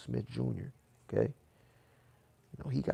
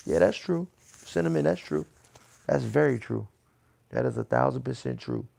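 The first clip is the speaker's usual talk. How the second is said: emphatic agreement; 7 dB louder than usual. Real, not acted.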